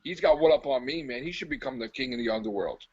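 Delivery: a hint of an awed devil, dropped low; the devil impressed. Devil conceding he's been outdone, mildly awed low voice. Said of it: "the devil himself is like".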